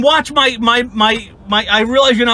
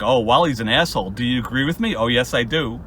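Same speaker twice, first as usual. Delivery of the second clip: mock low voice; 9 semitones lower, 5 dB quieter than usual. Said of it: "I send a message and I'm like".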